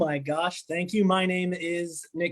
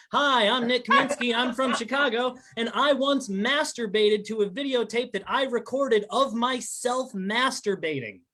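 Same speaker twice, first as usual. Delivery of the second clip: higher-pitched, recited stage introduction; rattled-off rehearsed intro; 5 semitones higher than usual. Shown as a demonstration. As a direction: try out canned openers one after another. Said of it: "I'm just gonna rattle 'em off".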